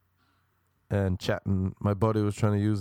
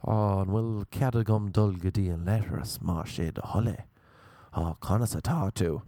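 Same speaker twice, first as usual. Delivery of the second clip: mock Irish-language speech. Shown as a demonstration. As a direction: intone Irish phrases as if profound. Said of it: "we talk Irish, but it's gibberish".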